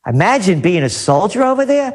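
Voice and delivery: quick, mocking echo of a quote; rapid, scornful questioning repeat; incredulous repeat. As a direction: throw it back as a disbelieving question. Throws the quote back, mocking it.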